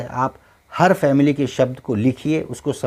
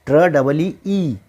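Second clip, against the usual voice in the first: spelled slowly letter by letter; slow teacher spelling; 2 semitones higher, slower than usual. Shown as a demonstration. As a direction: draw out the double e. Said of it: "थोड़ा खींच रहे हैं".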